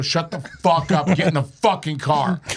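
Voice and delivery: mildly heated mock command; retold anger. Teller ordering Chase into the car, mildly mad. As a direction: order him off, a touch furious. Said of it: "I was so mad at him".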